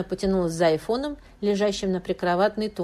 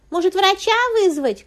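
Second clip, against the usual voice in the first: much higher, loud desperate cry; desperate shout; 14 semitones higher, 9 dB louder than usual. A narrator's reading. Wife shouts to her sick husband in desperate alarm. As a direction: shout through the door in despair. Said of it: "крикнула в отчаянии Ирина".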